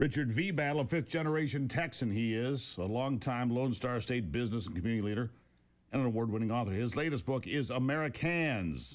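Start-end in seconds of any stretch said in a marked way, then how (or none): 6.7-8.9 "Americans" said slow with stress on "cans". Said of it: "emphasis on cans".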